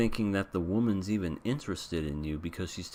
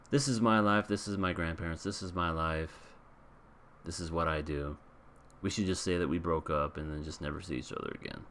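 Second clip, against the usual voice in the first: understated, subdued retold confession; somber; 3 semitones lower than usual. Couple admitting the truth after the lie, mildly somber retelling. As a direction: let it sink a little after the first phrase. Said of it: "kinda like a somber moment".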